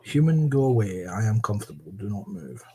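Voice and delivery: hushed, fading bossy cat; whispered haughty cat. Retold or imitated. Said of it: "That's the very one".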